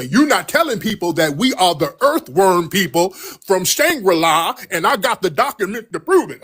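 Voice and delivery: mocking an angry caller. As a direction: imitate the caller's indignant accusation. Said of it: "what's with all of this weird energy".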